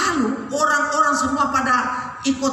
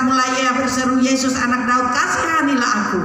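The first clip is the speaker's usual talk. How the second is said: raised, steady proclaiming voice; preacher declaiming a Bible story; forceful scripture reading; 4 dB louder than usual. A narrator's reading. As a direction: read the passage out strongly to a congregation.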